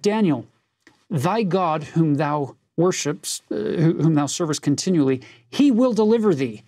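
quoting the king's assured words; firm declaration. Retold or imitated. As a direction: declare it with full confidence. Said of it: "He said".

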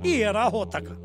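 documentary voice-over. Acted.

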